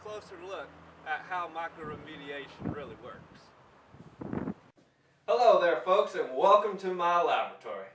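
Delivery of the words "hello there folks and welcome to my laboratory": loud hello. Acted. Doctor greets viewers in lab.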